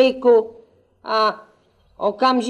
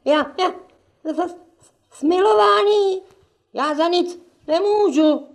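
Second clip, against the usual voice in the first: terrified stammering; 5 semitones higher than usual. Acted. Woken steward terrified by devil.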